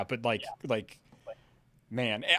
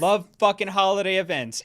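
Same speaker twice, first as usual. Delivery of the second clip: love FUCKING holiday events, FUCKING punched high and loud; emphatic fucking; 8 semitones higher, 11 dB louder than usual. Real, not acted. Friend correcting her cohost's phrasing, stressing fucking loudly. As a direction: hit the word fucking hard and loud.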